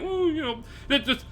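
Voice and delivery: hesitant, stumbling, mild-mannered scolding; mock whitest-guy voice. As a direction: imitate a reserved man trying to go hard. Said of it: "the whitest way you can explain it".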